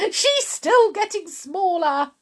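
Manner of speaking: high, excited crowing; gleeful shout. A narrator's reading. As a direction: call it out with glee. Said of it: "shouted Mister Cranky gleefully".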